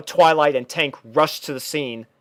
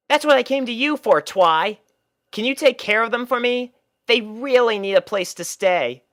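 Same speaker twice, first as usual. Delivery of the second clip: high, brash tomboy pony voice, pitched well up; a cocky young pony defending herself; Rainbow Dash voice; 9 semitones higher than usual. Acted. Rainbow Dash explains the puppies to Twilight, high and brash.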